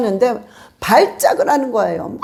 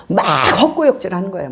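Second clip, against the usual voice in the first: ordinary talk, nothing marked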